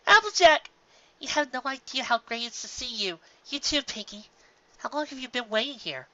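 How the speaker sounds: high, bright greeting voice; excited Twilight. Acted. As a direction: greet a friend with delight.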